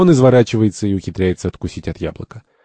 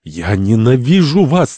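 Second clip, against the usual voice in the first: slow, raised cry of hatred; shouting; 5 semitones higher, 4 dB louder, slower than usual. Acted. Santori rounds on his tormentors, shouting. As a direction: cry it out, leaning on the words. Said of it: "Сантори кричит".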